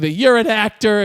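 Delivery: mildly mock-mad, thrown as blame; retold anger. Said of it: "she's mad that he's an actor".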